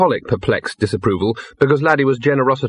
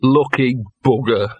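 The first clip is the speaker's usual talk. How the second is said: slow, resigned envy; drawn-out wistful grumble; sighed; 2 semitones higher, slower than usual. Acted. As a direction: sigh it out wearily. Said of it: "sighed Gaspode".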